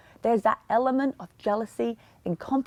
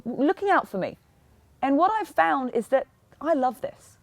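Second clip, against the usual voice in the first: nice, kind, caring. Shown as a demonstration. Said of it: "in a nice, kind, caring way".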